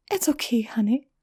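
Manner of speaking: gentle whisper, soothing a scared filly; murmured. A narrator's reading. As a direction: hush it to a frightened child. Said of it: "she murmured".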